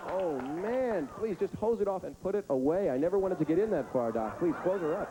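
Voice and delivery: mock-queasy husband pleading with the doctor. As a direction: beg the doctor to stop.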